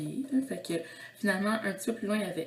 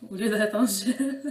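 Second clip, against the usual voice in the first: slowed, louder, tipping into a giggle; laughing; 2 semitones higher, 6 dB louder, slower than usual. Real, not acted. Vlogger explaining her soap choice, starting to laugh. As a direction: let real laughter creep into the words. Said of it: "désolée si je ris un petit peu pour rien".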